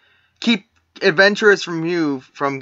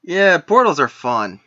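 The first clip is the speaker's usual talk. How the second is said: dry sarcastic. Acted. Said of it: "repeat of line 15".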